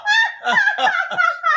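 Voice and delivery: squealing high laugh; high-pitched laughter. Real, not acted. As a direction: break into a shrill cackle. Cracks up at the joke.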